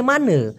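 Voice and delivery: "মানে" as mah-nuh, falling; colloquial pronunciation. Shown as a demonstration. Teacher showing the changed ending, colloquial pronunciation. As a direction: end "মানে" on a schwa. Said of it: "মানাকে বলতেছে".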